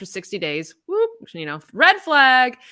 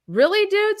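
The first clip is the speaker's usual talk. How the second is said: high, louder, fed-up disbelief; exasperated retort; 11 semitones higher, 5 dB louder than usual. Retold or imitated. Wife retorting to her ex-husband, high and exasperated. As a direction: throw it back at him, fed up. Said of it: "I'm just like".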